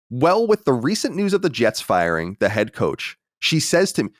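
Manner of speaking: careful re-read. Real, not acted. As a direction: take "Well, with the recent news" slowly, lifting "she says to me". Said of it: "we gotta get a comma in there".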